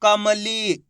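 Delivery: "कमली" joined up, final ee held long; blended syllables. Shown as a demonstration. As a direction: blend "कमली" and stretch its last vowel. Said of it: "इस तरीके से".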